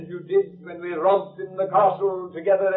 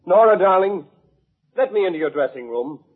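calling through a door; 2 semitones higher, 3 dB louder than usual. Acted. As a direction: call to her through the locked door. Calling through locked dressing-room door.

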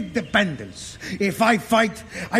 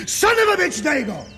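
retold yell; 4 semitones higher, faster than usual. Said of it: "and yell back".

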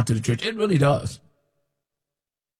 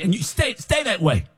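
ordinary talk, nothing marked

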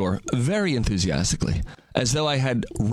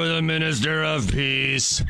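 doting dog talk; slower than usual. Retold or imitated. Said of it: "what I say to my dog".

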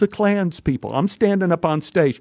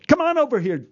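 calling out; 11 semitones higher, faster than usual. Retold or imitated. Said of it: "the A D yells at the boy".

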